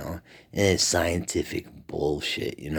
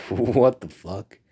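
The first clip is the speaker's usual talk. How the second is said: higher, slow, laughing what the fuck; laughing disbelief; 4 semitones higher, 5 dB louder, slower than usual. Real, not acted. Mocking the Big Bang Theory, laughing disbelief.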